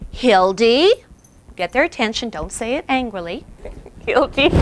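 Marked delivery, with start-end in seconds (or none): 0.1-0.9 assertive call. Shown as a demonstration. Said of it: "the proper way to correct that behavior is". 4.1-4.5 Hildy called lovingly with a lifting end; a fond lifting call of Hildy; with love. Shown as a demonstration. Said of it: "say her name with love".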